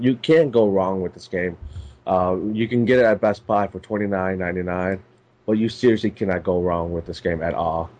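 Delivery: stuffy, blocked-up nose voice; talking through a stuffed nose. Real, not acted. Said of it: "which is why I'm, uh, like, talking like this".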